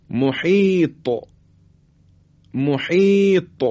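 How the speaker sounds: slow recitation of محیط with echoing ط; qalqalah on final ta. Shown as a demonstration. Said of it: "حرف طا".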